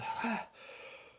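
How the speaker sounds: high, airy exhale; gasp after chugging. Acted. Shopkeeper after draining the waterskin, relieved gasp. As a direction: let out breath after a long drink.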